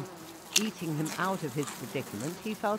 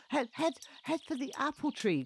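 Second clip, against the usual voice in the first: calling out; 8 semitones higher than usual. A narrator's reading. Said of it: "called Morris".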